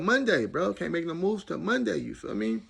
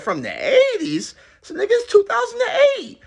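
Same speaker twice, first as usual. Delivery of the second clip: shocked repeat; 8 dB louder than usual. Retold or imitated. Shocked repeat, very high, loud.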